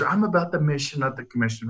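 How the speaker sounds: mock virtuous declaration, falling away at the end; lightly sanctimonious imitation. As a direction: mimic pious self-righteousness, ending softly. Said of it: "It sounds holier than thou".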